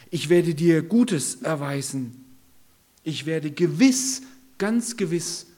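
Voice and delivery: loud, emphatic promise from a king; forceful reassurance. Acted. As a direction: call it out firmly, slowing the first words. David reassures frightened Mephiboset.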